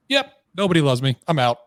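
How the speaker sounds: high, loud declaration; acted-out snap decision; mock resignation. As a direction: announce you're giving up, loudly. Retells the moment he snapped.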